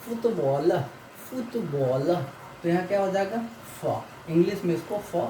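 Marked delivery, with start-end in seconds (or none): 0.0-2.1 फुटबॉल with a clear "f" at the start; teacher models फुटबॉल, stressing the f; pronunciation demo. Shown as a demonstration. Teacher shows the Russian letter F, pronunciation demo. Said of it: "इसको ये फा".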